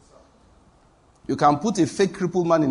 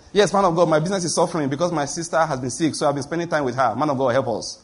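mock brother's plea. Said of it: "Then the brother said".

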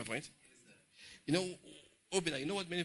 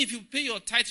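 mock proclamation; 7 semitones higher, 6 dB louder than usual. Mocks tithe promise.

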